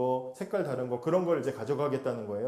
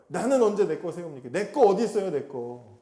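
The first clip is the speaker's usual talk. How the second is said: louder protesting cry; outcry; 2 semitones higher, 4 dB louder than usual. Retold or imitated. Jacob crying out at last, louder demanding protest. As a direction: demand what is owed, voice rising. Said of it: "이렇게 외치는 거예요".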